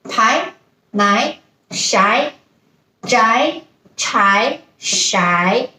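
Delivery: pai nai shai zhai chai shai rising; second tone in a row. Shown as a demonstration. Teacher repeating second tone syllables in a row. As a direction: lift each one up. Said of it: "Let's go over them again".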